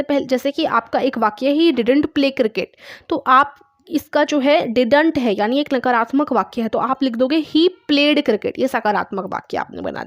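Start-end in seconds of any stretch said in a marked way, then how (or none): 1.5-2.7 very slow, each word spaced out; slow dictation. Shown as a demonstration. Teacher dictating an English sentence to her class, very slowly. 7.4-8.5 very slow, each word spaced out; slow dictation. Shown as a demonstration. Teacher dictating an English sentence to her class, very slowly.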